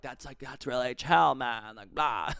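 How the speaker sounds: lightly voiced chill stoner dude; chill driver impression. Showing how the driver followed up, chill drawl. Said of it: "the way he was following up".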